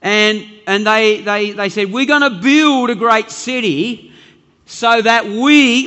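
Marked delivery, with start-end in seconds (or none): 1.9-5.9 raised, emphatic builders' proclamation; louder, stretched-out boast; grand declaration. Acted. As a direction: announce the big plan, drawing out the key words. Mimics boastful tower builders declaring plan.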